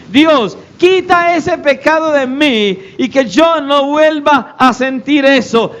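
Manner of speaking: lightly acted plea to God; praying sinner. Typical Christian praying after sinning, acted slow plea. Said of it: "la oración que la mayoría de los cristianos le hacen al Señor cuando pecan".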